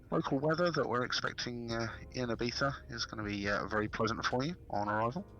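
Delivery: captain's cabin announcement through cupped hand; muffled pilot announcement, breathy; pilot over the radio. Pretend.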